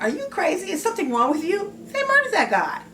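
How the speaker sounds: high, loud, incredulous daughter voice; girl yelling at parents. Acted. Young girl confronting her racist parents, high and furious. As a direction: shriek it like a teen shocked at her parents.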